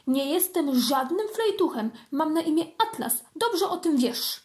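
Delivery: protest, offended; indignant. Acted. Kitten protests to cousin Flora, mildly indignant. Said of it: "oburzył się kotek".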